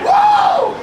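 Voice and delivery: very high, loud yelled whoa; a shrieked joyful whoa; screaming whoa. Retold or imitated. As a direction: scream it out in joy. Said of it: "and I just scream".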